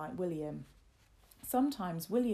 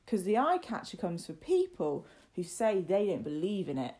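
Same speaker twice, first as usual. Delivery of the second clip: emphatic, louder spooky warning; warning Martin; 6 dB louder than usual. Acted. Lad invents the monster's rule for young master, warning. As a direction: lean hard on the key words.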